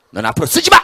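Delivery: loud, high command; angry shout. Acted. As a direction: bark the ban. Banishing the right hand. (오른손에게 호통치는 화난 외침)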